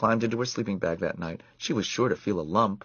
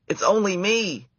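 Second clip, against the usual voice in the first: squeaky mouse voice; 11 semitones higher, 3 dB louder than usual. A narrator's reading. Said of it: "squeaked Ralph".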